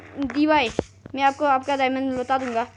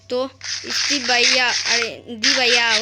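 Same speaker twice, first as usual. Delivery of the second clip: slow coaxing call; 6 dB louder, slower than usual. Real, not acted. Player luring his friend closer with a slow coaxing call. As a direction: draw it out slow and loud, luring.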